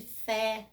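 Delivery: fé with an open é, as in English "bet"; open vowel. Shown as a demonstration. Teacher giving an example of acute accent, open vowel. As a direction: sound the é of fé fully open. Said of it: "me traz um som aberto".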